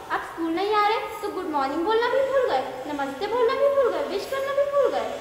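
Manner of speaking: scolding pitch climbs each time; rising teacher scolding. Acted.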